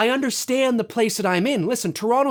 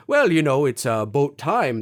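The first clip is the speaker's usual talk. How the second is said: put-on light Newfoundland accent with rounded vowels; Newfie accent; 5 semitones lower than usual. Imitating a politician from Newfoundland, light Newfie accent. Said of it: "his abouts and outs were very rounded".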